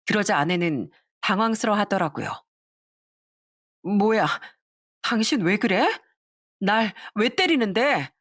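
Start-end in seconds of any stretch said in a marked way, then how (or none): 3.8-8.1 shocked protest. Acted. Wife protesting to husband after the slap, mildly shocked. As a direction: react as if just slapped.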